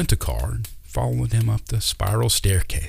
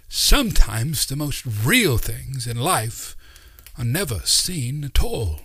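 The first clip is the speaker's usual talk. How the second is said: put-on wise old uncle; 5 semitones higher than usual. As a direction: speak like a kindly mystic uncle teaching children. Uncle Doc's voice.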